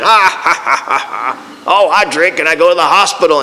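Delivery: mock hearty guffaw running into words; put-on ha-ha laughter; imitated laughing. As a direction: act out a man laughing at his own story. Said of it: "And Jack started laughing".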